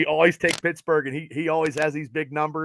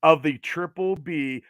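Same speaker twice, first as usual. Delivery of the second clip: big podcast-host welcome; host intro; 2 semitones higher, 8 dB louder than usual. Real, not acted. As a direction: boom it out like a show host. Podcast host opening announcement.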